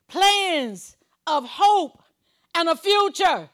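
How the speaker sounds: very slow, each word stretched and held; drawn-out emphasis. Real, not acted. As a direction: linger on the promise. Savours the promise slowly.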